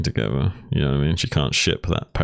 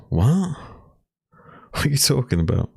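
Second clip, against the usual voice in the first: surprised; 10 semitones higher than usual. Real, not acted. Reacting to viewer's chat comment.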